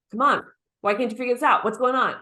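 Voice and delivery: pushy, impatient father, fast. Retold or imitated. Father pushing his son over homework, fast and impatient. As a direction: hurry the boy along, annoyed. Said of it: "his dad was very traditionally Portuguese and was like".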